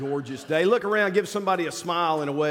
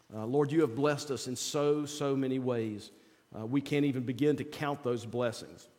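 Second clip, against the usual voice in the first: prayer voice. Acted. Leads an opening prayer.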